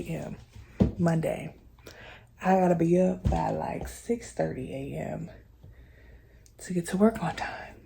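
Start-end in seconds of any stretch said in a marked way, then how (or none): 2.7-7.7 whispering. Real, not acted. Late night whisper.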